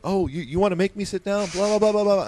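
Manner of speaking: mocking taunt.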